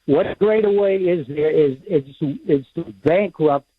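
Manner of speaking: muffled voice, away from the phone; muffled, talking away from the phone. Real, not acted. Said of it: "very muffled".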